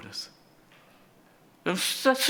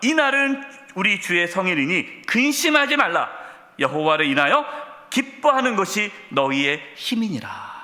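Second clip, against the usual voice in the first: scripture reading; 3 semitones higher than usual. Acted. Reads scripture aloud.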